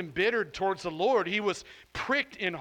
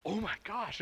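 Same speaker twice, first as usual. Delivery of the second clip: a bit higher, retelling a burst of excitement; light, delighted oh my gosh, pitched up a touch; excited gasp; 4 semitones higher, 5 dB quieter than usual. Retold or imitated. Pastor retelling his discovery to his wife, mildly excited. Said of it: "I got really excited".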